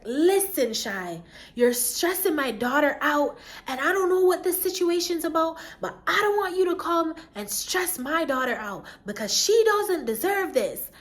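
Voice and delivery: lightly voiced protective mother; stern mom. Friend's mom scolding on phone.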